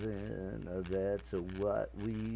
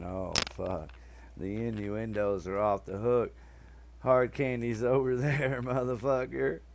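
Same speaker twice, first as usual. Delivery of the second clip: laughing; 3 semitones higher than usual. Retold or imitated. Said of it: "she just busted up laughing, going".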